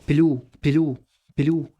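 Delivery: بلو with a long oo, no Y. Shown as a demonstration. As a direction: stretch the final oo of بلو. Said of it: "كأني بقول أو". (انطق «بلو» كأنها أو من غير يو)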